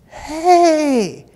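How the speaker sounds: sharp high call of hey. Retold or imitated. Neighbor calling across the yard, sharp high hey. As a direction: call out to get his attention.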